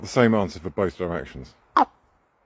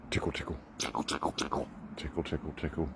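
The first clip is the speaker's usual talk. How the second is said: softer, gentle tickle tickles; soft coo; 2 semitones lower, 12 dB quieter than usual. Real, not acted. Owner softly cooing tickle tickle while tickling the raven. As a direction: coo it quietly to the bird.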